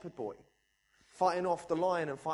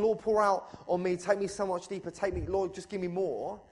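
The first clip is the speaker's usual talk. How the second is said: crying out; 3 semitones higher, 5 dB louder than usual. Retold or imitated. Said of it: "when I say to him".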